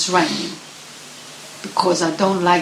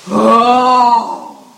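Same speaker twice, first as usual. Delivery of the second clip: scoffing; 5 semitones higher, 9 dB louder than usual. Acted. Mother bear scoffs.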